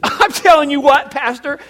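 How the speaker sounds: high, loud South Side parishioner; Teresa impression. Parishioner answering about this week's message, loud high impression. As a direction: sound off as a brash churchgoer. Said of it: "That's exactly how she talks".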